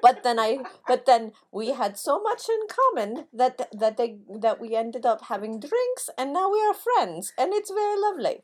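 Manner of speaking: Kurt voice. Acted. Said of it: "would talk about".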